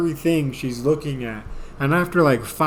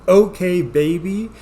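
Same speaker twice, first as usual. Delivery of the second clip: put-on louder, knowing okay baby; warning okay baby; 4 semitones higher, 5 dB louder than usual. Warning the audience about the girlfriend, mock knowing okay baby. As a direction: say it like a trap. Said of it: "Do not fall for that".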